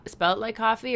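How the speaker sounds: whisper. Real, not acted. Asks about spelling, whispered.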